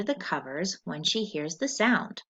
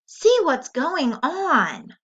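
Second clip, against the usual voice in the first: slow, loud, higher call; weary call; 8 semitones higher, 7 dB louder, much slower than usual. Acted. Tired dad calling across the hall, slow loud call. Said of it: "Dad called in a weary voice".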